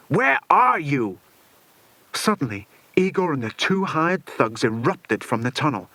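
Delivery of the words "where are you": panicked call. A narrator's reading. Villain panicking.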